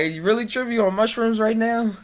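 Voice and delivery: loud, high, shocked question; incredulous disbelief. Retold or imitated. Streamer mock-asks a friend if he's tripping, loud and high. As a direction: throw the disbelief at them. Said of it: "I was like".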